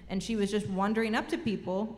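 ordinary delivery

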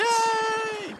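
very high, drawn-out cheer; gleeful cheer. Real, not acted. Contestant cheers her team's correct answer, gleeful. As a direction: celebrate in a long high squeal.

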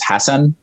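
"Hassan" with the Arabic vowels; colloquial Arabic name. Shown as a demonstration. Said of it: "I would probably say the colloquial way".

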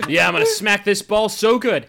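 game voice take. Acted. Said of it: "Another take?".

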